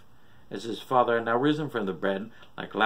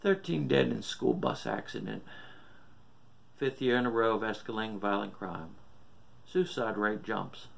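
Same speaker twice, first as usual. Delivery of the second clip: news reader. A narrator's reading. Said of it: "T V reporter droned on".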